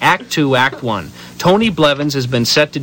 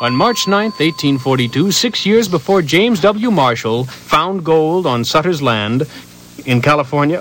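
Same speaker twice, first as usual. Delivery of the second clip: news announcer. Acted. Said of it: "make it sound like a news announcement".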